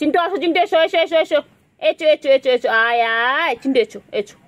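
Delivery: high, loud coaxing call; calling the pet. Real, not acted. Owner calling Chintu to come eat, high loud coaxing call. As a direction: sing out to coax the pet over, high and bright.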